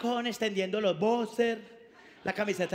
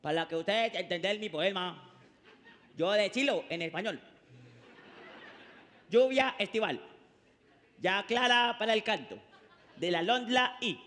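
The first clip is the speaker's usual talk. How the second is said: mock Japanese. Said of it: "arranca el japonés".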